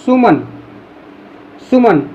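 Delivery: short quick सुमन with a clipped u; said quickly. Shown as a demonstration. Teacher saying सुमन quickly to show the short sound. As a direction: rush through सुमन. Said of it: "जल्दी से बोल रहे हैं".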